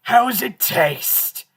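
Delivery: very slow put-on voice; drawn-out cartoon character line; slow mock character voice; character quote. Quoting episode line.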